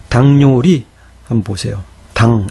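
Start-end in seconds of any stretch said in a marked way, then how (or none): 2.1-2.5 당 ending in ng; sound as spoken. Shown as a demonstration. Teacher showing how the written word sounds, 당 with final ng. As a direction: close 당 on a nasal ng. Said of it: "이렇게 발음되죠".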